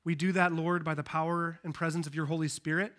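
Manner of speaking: low, subdued pastoral prayer. Real, not acted. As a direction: pray humbly aloud with long pauses between phrases. Leads a prayer.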